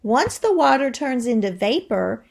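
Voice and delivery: lively read-aloud to the class; expressive classroom read-aloud; reading to children. Acted. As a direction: read it like a storybook for kids. Teacher reads book aloud.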